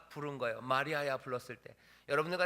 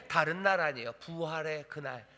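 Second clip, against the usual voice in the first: normal talking voice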